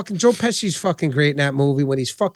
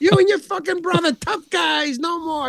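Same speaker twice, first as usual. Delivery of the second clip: Pesci impression again; 12 semitones higher than usual. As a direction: quote the movie threat with relish. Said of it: "It's like".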